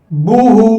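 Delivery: बूहू with lips rounded and pushed forward. Shown as a demonstration. Teacher showing pupils the rounded pesh sound. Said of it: "होठों को गोल करके".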